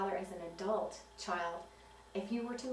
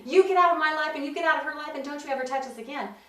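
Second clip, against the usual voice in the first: furious order; 6 semitones higher, 9 dB louder, faster than usual. Pretend. Imagined mother ordering father out.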